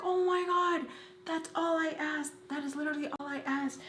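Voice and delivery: high-pitched, distressed protest without real volume; mock upset screaming. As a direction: re-enact a frantic, pleading defence. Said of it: "screaming and crying".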